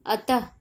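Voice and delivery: अतः ending in a breath of ह; final ह sound. Shown as a demonstration. Teacher demonstrating visarga to pupils, sounding the final ह. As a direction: close अतः on an audible ह. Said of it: "बोलने पर ह की ध्वनि निकलती है".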